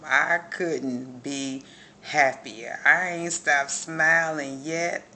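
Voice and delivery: loud, slow, beaming joy; real grin heard in the voice; smiling voice. Real, not acted. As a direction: let the smile come through every word. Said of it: "you can hear it in my voice".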